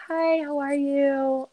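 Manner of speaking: high, slow, sing-song greeting; a bright phone-nurse hello; chirpy nurse. Retold or imitated.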